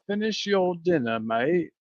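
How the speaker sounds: clumsy English accent with a little Australian; a half-hearted English accent, a touch Australian; a weak try at an English accent; poor English accent. Shown as a demonstration. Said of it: "a really poor English accent".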